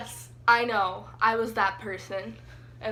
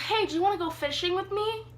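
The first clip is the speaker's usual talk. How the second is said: mimicking the friend; 6 semitones higher, faster than usual. Mimics friend's cheerful invitation.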